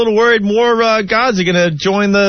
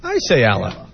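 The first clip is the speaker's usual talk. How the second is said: lower, softer I say Allah with a flat American Allah; white American accent; 9 semitones lower, 4 dB quieter than usual. Shown as a demonstration. Defending his American way of saying it, low and soft. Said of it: "worst white guy accent ever".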